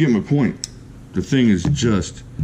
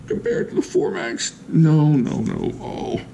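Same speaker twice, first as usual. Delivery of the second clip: hammed-up, high breaking mock sob; mock emotional; 8 semitones higher than usual. Reviewer fakes grief at comparing his beloved Formax, mock sob. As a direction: pretend to choke up over an old knife. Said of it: "I'm getting all emotional about the Formax".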